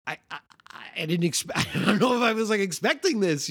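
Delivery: hesitant, stammering mock sheepishness; sheepish. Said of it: "is, like, sheepish".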